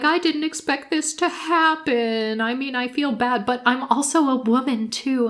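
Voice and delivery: high, soft, lightly imitated whimper; mock tearful. Mom excusing herself in a confessional, mock tearful. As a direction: plead your case in a mock-weepy voice. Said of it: "then she's crying in, like, a confessional".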